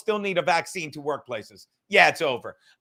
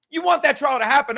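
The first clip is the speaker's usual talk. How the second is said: emphatic repeat; 6 semitones higher, 6 dB louder than usual. Real, not acted. Repeating point, louder insistence.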